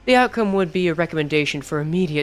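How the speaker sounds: low, measured corporate voice; calm, cold and businesslike; cold company man. Acted. Reads the company man's lines.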